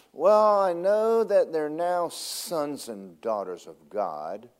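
lightly voiced God, slow and pondering. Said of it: "he's sitting up there in heaven and going".

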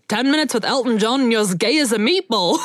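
laughing through the line; laughing quote. Retold or imitated. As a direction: giggle while quoting him. Quoting manager, laughing.

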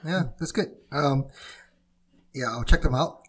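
talking through hiccups; hiccuping between words. Real, not acted. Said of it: "I've chosen a very unfortunate time to have hiccups".

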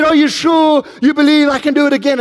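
high, projected call to a crowd; rally the audience like a stunt performer; showman's call. Acted. Acted showman calling to crowd.

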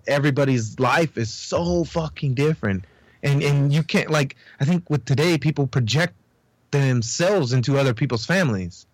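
high, rambling talk; stoned. Real, not acted. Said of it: "I'm high as fuck".

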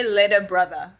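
LATER with an open final A, no R; casual slang "later", R dropped for an A; taught slang pronunciation. Retold or imitated. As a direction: say LATER like LAY-DA, ending on A. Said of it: "It's an A".

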